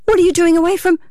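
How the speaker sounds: high-pitched, startled question; gasping astonishment. A narrator's reading. Wife startled by her husband behind her, astonished. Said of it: "gasping in astonishment".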